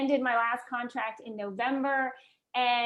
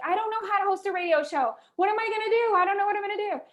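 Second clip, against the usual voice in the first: retold panic; 8 semitones higher, faster than usual. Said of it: "And I'm like".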